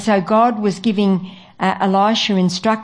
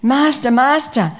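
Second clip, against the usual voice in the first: fearful; 5 semitones higher than usual. Acted. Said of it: "comes inside all concerned and fearful".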